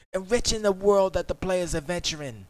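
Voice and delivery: British accent. Shown as a demonstration. Streamer reading the next note in a British accent. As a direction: keep up the British read. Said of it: "I gotta do it in a British accent".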